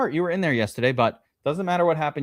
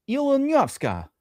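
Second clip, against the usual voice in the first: put-on Russian accent; 12 semitones higher, slower than usual. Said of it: "with a Russian accent?".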